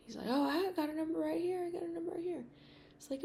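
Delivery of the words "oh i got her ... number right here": voicing the man. Voices the man answering her.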